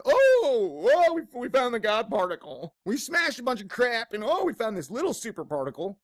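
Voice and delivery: sarcastic imitation of gushing scientists; hammed-up excited scientist; mocking scientists.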